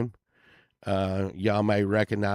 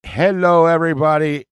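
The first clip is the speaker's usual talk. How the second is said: a half-hearted British royal voice; loud hello in a lightly British tone; a lightly voiced prince greeting; attempted posh British; 6 semitones higher, 10 dB louder than usual. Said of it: "Wait, no".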